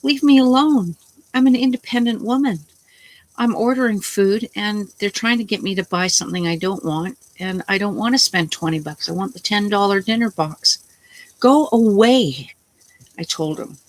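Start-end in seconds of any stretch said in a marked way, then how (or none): 0.0-10.8 retold angry outburst. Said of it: "I got really pissed off". 11.4-12.6 retold angry outburst. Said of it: "I got really pissed off".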